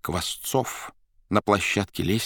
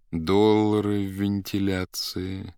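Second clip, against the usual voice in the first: thoughtful; slower than usual. Acted. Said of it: "задумчиво сказал первый".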